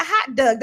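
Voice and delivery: dog said like "Doug"; dog with an "uh" vowel; Baltimore pronunciation. Retold or imitated. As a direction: say hot dog as "hot dug". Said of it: "first time I ever heard that".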